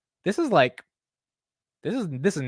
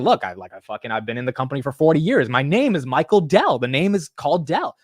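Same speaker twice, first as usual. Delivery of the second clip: rising higher and louder in mock outrage; hammed-up CEO rant at the interviewer; mock-indignant Michael Dell; 3 semitones higher, 3 dB louder than usual. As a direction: play Dell defending his profits, getting worked up. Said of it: "I'd have been like".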